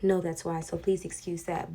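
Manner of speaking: lisping a little from a new retainer; slight lisp. Real, not acted. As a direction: talk around a fresh retainer. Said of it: "if I have a lisp or I'm talking weird".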